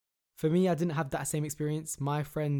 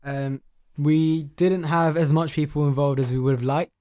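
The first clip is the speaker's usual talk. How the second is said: loud urgent appeal; 7 dB louder than usual. Real, not acted. Urging listeners to share giveaway.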